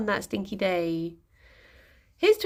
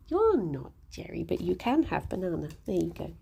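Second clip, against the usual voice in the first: soft pet talk; 4 semitones lower, 4 dB quieter than usual. Real, not acted. Talking softly to a bunny.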